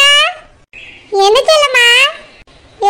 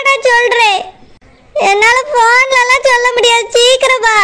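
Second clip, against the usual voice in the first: crying. Acted. Sister crying on the phone.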